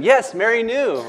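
"Yes" hit high and loud; emphatic. Acted. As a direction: insist on "Yes, Mary knew". Repeating the point emphatically.

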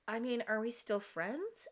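soft, slow worried question; quietly concerned, a little hesitant; mildly concerned. Retold or imitated. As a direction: imitate a friend's tentative worry. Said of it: "she seems genuinely concerned".

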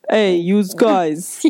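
very slow Chicago yous guys; Chicago accent. Retold or imitated. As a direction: drag out hey yous guys Chicago style. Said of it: "Yeah, like that".

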